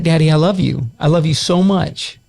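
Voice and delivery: little daughter. Retold or imitated. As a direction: lightly voice a small child saying it. She's like.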